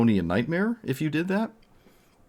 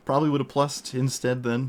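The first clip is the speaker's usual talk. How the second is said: laughing through the words, a bit higher; 5 semitones higher than usual. Real, not acted. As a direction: chuckle at the mistake. Laughs at own misplay.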